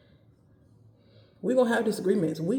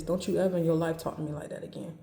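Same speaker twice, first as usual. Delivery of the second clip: stern scolding without yelling; firm reprimand at talking volume; straight, controlled telling-off; faster than usual. Shown as a demonstration. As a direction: read them in an even, matter-of-fact tone. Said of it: "I'ma just tell you straight like this".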